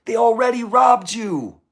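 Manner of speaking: loud, high outburst; angry shout. Real, not acted. Ranting at the people who robbed his family, shouting. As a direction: let the anger burst out.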